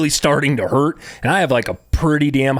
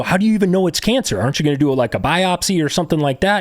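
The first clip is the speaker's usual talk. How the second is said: higher-pitched, doubting retold challenge; incredulous questioning; 5 semitones higher than usual. Patient challenging the doctor's cancer diagnosis, incredulous. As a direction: question it in disbelief, starting high.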